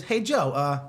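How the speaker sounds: high sing-song mom voice, sweetly suspicious; mother's voice. Retold or imitated. Retelling his boss's text in a high mom voice. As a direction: play the boss mom, fishing sweetly.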